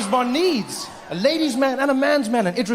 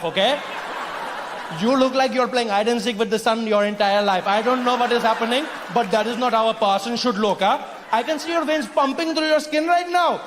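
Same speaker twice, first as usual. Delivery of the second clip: mocking Indian uncle; 2 semitones higher than usual. Indian character mocks pale skin.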